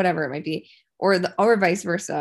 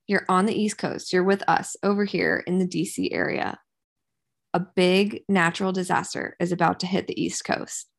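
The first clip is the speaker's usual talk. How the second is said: story narrator voice. Pretend. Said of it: "not, it's not spooky voice, but, you know".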